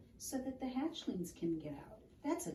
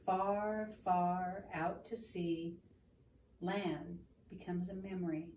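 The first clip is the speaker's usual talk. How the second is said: story reading. A narrator's reading. Reads picture book aloud.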